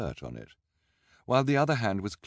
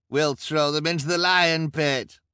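much higher, louder crowd voice; bloodthirsty onlooker; 11 semitones higher, 8 dB louder than usual. A narrator's reading. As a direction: relish the threat. Crowd member.

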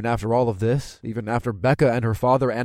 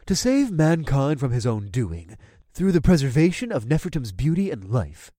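grudging recital. Acted.

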